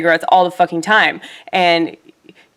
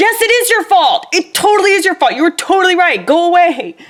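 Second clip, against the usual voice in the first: play-acted, very high-pitched yelling; 11 semitones higher than usual. Retelling telling a coworker to leave the station, retelling own yelling. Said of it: "because I just started yelling".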